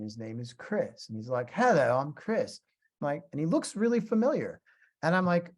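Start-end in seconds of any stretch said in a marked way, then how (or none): 1.5-2.6 mock British greeting, drawn out; slow, imitation British accent. British musician greeting visitor at studio door, imitated British accent. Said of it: "he's got a British accent".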